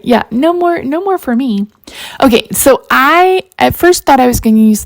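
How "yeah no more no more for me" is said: high sing-song no more, lightly played; mock refusal. Spooked kid swearing off horror movies, high mock refusal. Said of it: "It's like".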